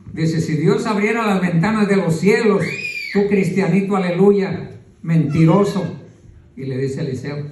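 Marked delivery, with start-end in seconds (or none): 0.4-5.8 mocking officer. The king's officer mocks the prophet Eliseo, lightly sneering. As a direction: sneer at the prophet, half in jest. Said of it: "se burló de Eliseo".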